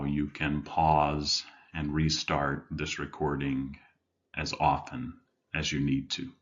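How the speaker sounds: measured meditation guide with long pauses; guided meditation. Acted. Life coach leading listeners to settle in, guided meditation. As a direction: guide them gently inward, leaving room between phrases.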